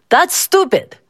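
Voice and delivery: put-on little boy voice.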